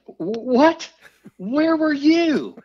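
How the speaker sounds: high, loud, stretched-out frantic call; high drawn-out shout of disbelief. Retold or imitated. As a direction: call out desperately to the passing boat. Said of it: "I'm like".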